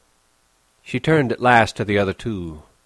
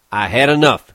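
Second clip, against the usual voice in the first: louder, hard cold refusal; 3 semitones higher, 7 dB louder than usual. Acted. Crooks refuses Curly's wife, coldly. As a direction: shut her down coldly. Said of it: "he said coldly".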